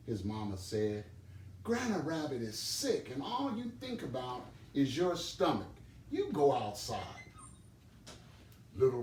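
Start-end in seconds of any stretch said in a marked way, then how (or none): 1.6-7.0 a lightly raised, stern mother rabbit; a touch of a tired mother sending him out; scolding mother. Acted. Mama Rabbit scolds Little Rabbit, lightly stern.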